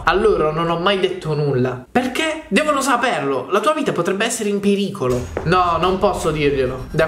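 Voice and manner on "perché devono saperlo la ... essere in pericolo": high-pitched urgent protest, easing down; worried friend, voice raised in pitch; alarmed. Acted. Friend alarmed in chat story.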